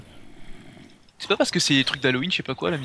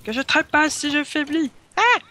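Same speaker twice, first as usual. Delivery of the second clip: ton héroïque théâtral; 13 semitones higher, 4 dB louder, slower than usual. Acted.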